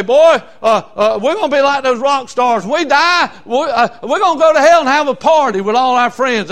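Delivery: hammed-up party boast; mock youthful bravado. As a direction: imitate excited kids bragging. Mocking youthful boasts about hell.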